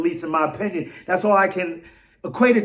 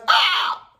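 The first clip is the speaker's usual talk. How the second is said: yawn. Shown as a demonstration. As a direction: stretch out a big waking yawn. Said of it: "That's how I yawn".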